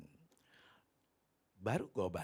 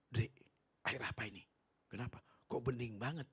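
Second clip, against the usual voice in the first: hushed amazement. Retold or imitated. Amazed at clear water.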